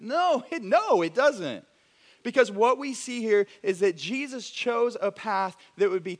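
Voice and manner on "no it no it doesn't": laughing rebuttal with a slow end. Real, not acted. Pastor laughs, contradicting the easy reading. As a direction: laugh it off, then firm.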